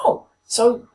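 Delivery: put-on old lady voice. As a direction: imitate an elderly passer-by, pitched well up. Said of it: "an old lady, at least eighty years old".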